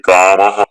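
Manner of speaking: "kamaha" with a breath of "ha" after the vowel; visarga sound. Shown as a demonstration. Teacher showing students how visarga sounds, "kamaha" ending in exhaled "ha". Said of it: "this is how the visarga sound is".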